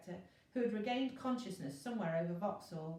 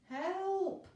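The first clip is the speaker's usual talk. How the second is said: high, loud howl for help; 10 semitones higher, 4 dB louder than usual. A narrator's reading. Elliot howling for help, clinging to the train, terrified. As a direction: cry out hanging on for life. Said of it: "Elliot howled".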